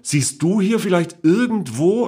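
innocently mocking question; teasing aunt. A narrator's reading.

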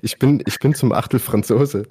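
ordinary talk, nothing marked

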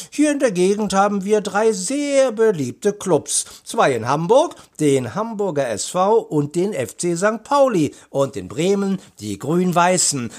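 high, lilting woman's character voice; informative commissioner. A narrator's reading. Commissioner lists local clubs for the boys, animated.

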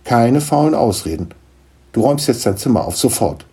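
brisk, firm motherly order; stern. Acted. Mother rejects Niklas's lazy excuses, stern. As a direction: lay down the law. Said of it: "seine Mutter sah ihn streng an".

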